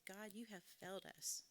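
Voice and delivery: a subdued first telling of the prayer; quiet complaint to God. Retold or imitated. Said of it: "get real moments".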